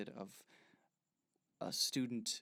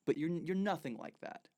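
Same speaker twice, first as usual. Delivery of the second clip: loud, scornful accusation; loud accusing; 3 semitones higher, 7 dB louder than usual. Acted. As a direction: call him a fake, loudly. Kenneth accuses Clark.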